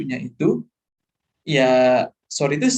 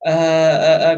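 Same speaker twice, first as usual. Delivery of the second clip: loud, drawn-out "eh" stalling; nervous presenter fillers; 8 dB louder, slower than usual. Shown as a demonstration. Teacher showing nervousness in presentations, demonstrated hesitation sounds. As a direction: mimic a presenter stuck on "eh". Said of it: "kalau presentasi itu kan menandakan".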